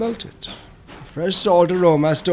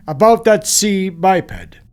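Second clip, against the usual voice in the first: shy; 2 semitones higher, 5 dB louder, slower than usual. A narrator's reading. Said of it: "began Professor Farago shyly".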